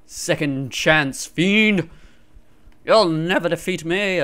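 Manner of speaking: hammed-up loud defiance; playfully over-dramatic challenge; mock-heroic taunt. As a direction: taunt the foe like a cartoon hero.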